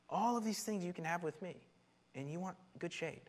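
God's appeal. Acted. God offers the people life with him, gently pleading appeal. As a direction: lay out each offer gently, pausing between. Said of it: "God's like".

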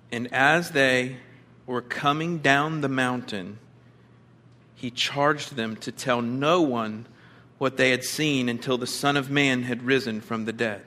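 scripture reading. Acted.

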